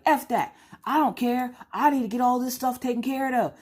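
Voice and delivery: high, forceful off-the-phone rant; gangster voice. Acted. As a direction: drop the politeness and let rip. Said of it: "the rest of the time you gangsters".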